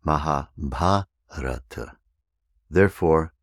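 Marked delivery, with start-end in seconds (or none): 0.0-2.0 Mahabharata slowly, with the stress on the third syllable from the end; Sanskrit stress. Shown as a demonstration. Teacher models the correct Sanskrit stress slowly. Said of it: "third from the end".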